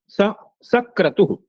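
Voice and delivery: "स" set apart, then "सक्रतुः"; pause before क. Shown as a demonstration. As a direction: stop briefly on "स" before the क of "सक्रतुः". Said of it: "ककार के पूर्व विरति होने पर". ("सक्रतुः" में ककार से पहले विराम)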